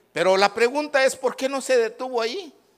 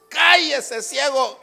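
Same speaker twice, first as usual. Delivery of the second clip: raised-voice scolding; scolding hush; 3 semitones higher, 4 dB louder, slower than usual. Acted. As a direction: tell him off, loud and curt. Crowd silencing the blind man.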